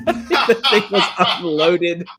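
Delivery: high laughter, slow and breathless; laughing till crying; laughing hard. Real, not acted. Host retelling a clip, laughing till crying. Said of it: "I was crying".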